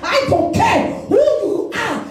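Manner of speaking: forceful preacher rousing the congregation, stretching key words; fiery preaching. Real, not acted. Preacher promising the congregation that God will fight, fiery preaching. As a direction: declare it like a battle cry. Preacher builds toward prayer.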